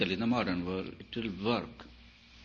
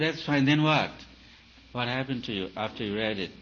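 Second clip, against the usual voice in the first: mock impatient challenge; 2 semitones higher, 6 dB louder than usual. Teacher acting out a pushy question to a student, loud and impatient. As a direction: press the student for an answer.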